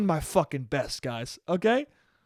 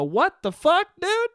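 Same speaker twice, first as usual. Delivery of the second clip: high, loud squeal of disbelief; sudden high yelp of surprise; shocked outburst; 12 semitones higher, 3 dB louder than usual. Retold or imitated. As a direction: blurt it out, stunned and thrilled. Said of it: "And I go".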